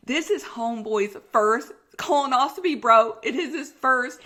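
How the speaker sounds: high, loud laughing realization; laughing disbelief. Retold or imitated. Patient realizing it's the doctor's first colonoscopy, laughing high. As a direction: laugh it out in shock. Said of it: "I'm like".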